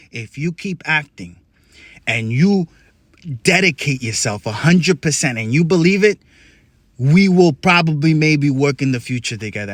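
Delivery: a hint of a measured mentor, paced with pauses; lightly voiced Denzel. Denzel gives earnest advice.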